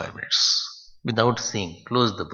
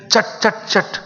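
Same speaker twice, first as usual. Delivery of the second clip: crackling fire sound; 8 semitones higher than usual. Shown as a demonstration. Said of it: "Fire has shabd".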